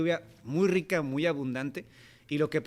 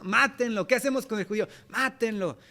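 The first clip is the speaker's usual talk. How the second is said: higher, insistent mob demand; mob shouting; 5 semitones higher than usual. Retold or imitated. The crowd before Pilate, imitated angry shouting. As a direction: call for his death like the crowd. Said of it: "gente que estaba gritando".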